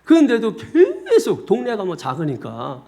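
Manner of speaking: ordinary talk, nothing marked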